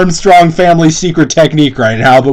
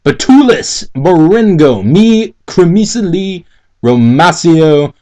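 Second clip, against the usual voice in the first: mock scream; 2 semitones higher, slower than usual. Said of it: "Then he screamed".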